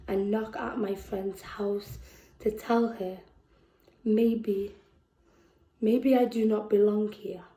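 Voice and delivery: measured, deliberate poetry delivery with long pauses; spoken word poem. Acted. Reads her poem aloud.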